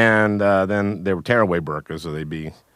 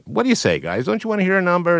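high, excited emcee call to the troops; rallying the crowd; 11 semitones higher, faster than usual. Retold or imitated. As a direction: pump up the audience like a show host. Host rallying troops on stage.

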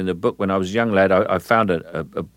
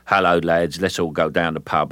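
lightly voiced cheerful Cockney lad; a touch of matey working-class Cockney; chirpy Cockney. Shown as a demonstration. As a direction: hail your mates in light, chirpy Cockney. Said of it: "cheerful, chirpy working class".

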